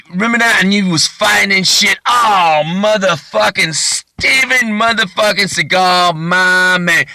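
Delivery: high, hammed-up fan excitement; gushing fan. Suspect reliving a movie with the action star, high excited gushing. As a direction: pitch it up and stretch the star's name.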